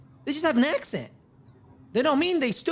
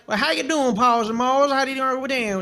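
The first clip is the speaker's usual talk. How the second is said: lightly imitated Southern accent; Southern accent impression. Co-host mimicking how outsiders imitate Southerners, Southern accent. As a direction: toss off a folksy Southern greeting. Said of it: "your impression of somebody from the South speaking".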